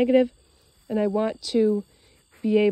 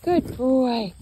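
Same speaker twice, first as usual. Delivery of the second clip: much higher, slow coaxing call; coaxing the dog; 6 semitones higher, slower than usual. Real, not acted. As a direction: draw the dog along sweetly. Coaxing dog to change direction.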